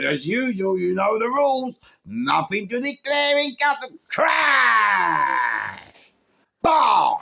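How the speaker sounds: high, loud, slow shouted punchline; real excited yell; loud laughing shout. Real, not acted. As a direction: belt it out laughing.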